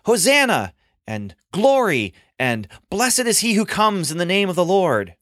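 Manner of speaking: high, joyful crowd cries of praise; crowd cheering. Acted. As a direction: cheer like a festive crowd welcoming a king. Crowd shouts at entry.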